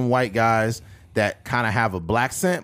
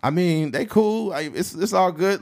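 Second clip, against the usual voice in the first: unbothered; 7 semitones higher than usual. Retold or imitated. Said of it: "he didn't care".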